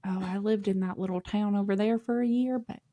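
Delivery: lightly imitated country accent. Mocking a Boston witness, a light country accent by mistake. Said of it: "I'm using a country accent".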